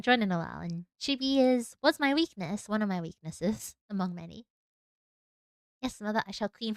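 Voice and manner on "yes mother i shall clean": dutiful child in mock British accent; lightly played British-accented obedience. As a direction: answer mother in put-on British. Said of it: "a mock British accent".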